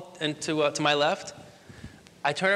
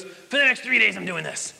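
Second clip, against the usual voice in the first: big voice; 2 semitones higher than usual. Retold or imitated. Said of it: "he's got this big voice".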